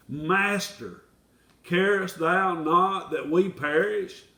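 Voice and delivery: slow, pleading cry of the frightened disciples; desperate outburst. Acted. Disciples cry to the sleeping Master in a slow, desperate plea. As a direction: drag it out like men about to drown. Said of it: "We see the little spontaneous outbursts".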